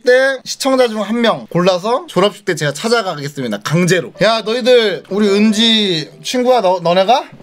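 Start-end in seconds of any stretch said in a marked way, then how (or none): 4.2-7.3 slow blustering big-brother threat; tough guy act. Pretend. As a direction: play the tough brother, laughing. Acting out a tough older brother.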